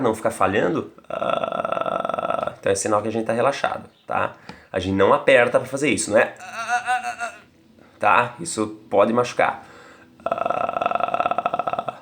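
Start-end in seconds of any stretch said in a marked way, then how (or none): 1.1-2.5 soft creaky fry with no voice; unvoiced rattling vocal fry. Shown as a demonstration. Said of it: "se ele ficar bem regular". 10.2-12.0 soft creaky fry with no voice; unvoiced rattling vocal fry. Shown as a demonstration. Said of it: "só como termômetro".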